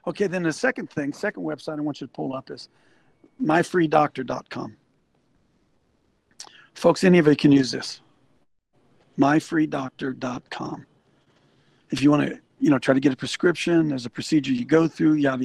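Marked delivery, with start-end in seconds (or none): 3.4-4.8 slow, spelled-out address. Shown as a demonstration. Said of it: "spells out web address slowly". 9.2-10.9 slow, spelled-out address. Shown as a demonstration. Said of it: "repeats web address slowly".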